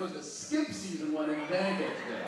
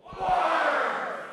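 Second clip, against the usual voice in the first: loud blurted answer; shouted answer; 10 semitones higher, 6 dB louder than usual. Acted. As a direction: yell it out.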